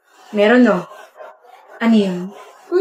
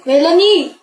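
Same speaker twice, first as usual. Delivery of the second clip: high, drawn call after someone; 5 semitones higher, 3 dB louder, slower than usual. Acted. Joker calling after an upset Melanie, high call. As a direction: call the name out, pitched up.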